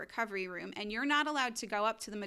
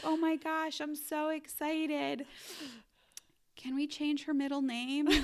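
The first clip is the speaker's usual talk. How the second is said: high, gushing retold delight; excited new mother; 5 semitones higher than usual. New mother meeting her daughter, excited. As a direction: gush in a high voice, stretching the words.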